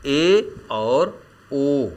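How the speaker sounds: ए and ओ said very slowly, held; half-close vowel demo. Shown as a demonstration. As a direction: stretch ए and ओ out. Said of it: "जैसे". (ए और ओ को बहुत धीरे खींचकर बोलना)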